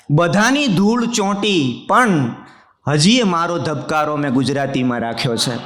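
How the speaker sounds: declaimed Gujarati verse, phrase by phrase; mushaira-style verse delivery; poetry recitation. Acted. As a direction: recite the couplet to a hall, landing the refrain. Recites a couplet to the audience.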